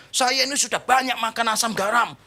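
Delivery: mildly hammed-up huffiness; mock angry elder. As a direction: imitate a touchy old-timer pulling rank. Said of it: "Lalu marahnya gini lagi kan".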